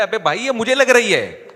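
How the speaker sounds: high, loud pained cry; yelping beaten man. Retold or imitated. Fake possessed man crying out under blows, high loud yelp.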